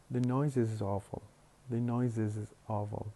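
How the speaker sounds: "is" as its own syllable after "noise"; separate syllable. Shown as a demonstration. Teacher showing choice B, "is" said as a separate syllable. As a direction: keep a full vowel in "is" after "noise". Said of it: "pronounce the auxiliary as a separate syllable".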